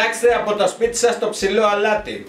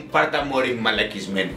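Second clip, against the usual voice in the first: much lower, softer mocking growl; low mock slap taunt; 10 semitones lower, 4 dB quieter than usual. Comedian voicing a slapping mother, low and sneering. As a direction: drop low and sneer it softly. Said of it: "την έλεγε".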